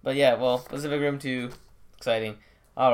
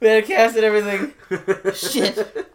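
loud, fast, high rant; frantic studio exec; 9 semitones higher, 8 dB louder than usual. Retold or imitated. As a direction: rattle off the loss in a panic. Acting out Sony execs panicking.

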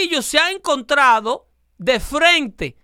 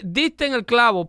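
"Diste en el clavo" falling to a full stop on "clavo"; deliberate reading, cut off after "clavo"; pause at comma. Shown as a demonstration. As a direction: close the phrase on "clavo" and wait.

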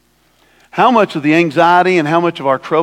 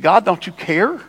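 ticked-off Martha; 6 semitones higher than usual. Retold or imitated. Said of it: "She said".

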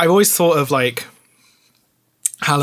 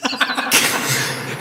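evil laugh; 10 semitones higher, 3 dB quieter than usual. Pretend. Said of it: "I am going to do my evil laugh as well".

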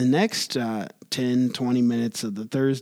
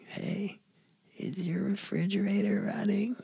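prank caller voice; 6 semitones higher, 9 dB quieter than usual. Pretend. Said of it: "I'll go with a classic".

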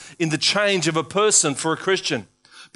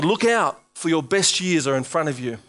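voice of God; 3 semitones lower than usual. Acted. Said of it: "God is saying".

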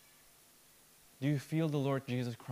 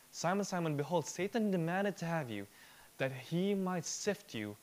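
Jesus' warning reread pitched higher; higher, urgent reread; 6 semitones higher than usual. Shown as a demonstration. Preacher rereads Jesus' warning to Peter, higher and urgent. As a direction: lift the whole quote up, pressing it home. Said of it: "But notice".

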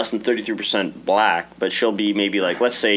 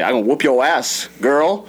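imitating a scolding parent; 4 semitones higher than usual. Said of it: "You can say".

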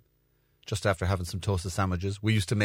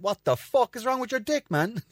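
high, disbelieving cry; mock horror at mate's body; shocked; 13 semitones higher than usual. Shocked at friend's body: high, disbelieving squeal. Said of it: "And I went".

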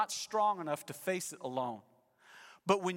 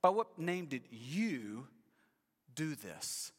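disdainful demand; 4 semitones lower, slower than usual. Acted. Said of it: "an emphatic "you" in the original language that's sort of a disdain".

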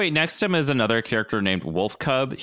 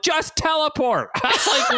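high, laughing plea to just teleport; laughing exasperation; 13 semitones higher than usual. Retold or imitated. Podcaster laughing at Nightcrawler for sneaking, exasperated. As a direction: squeal it through a laugh.

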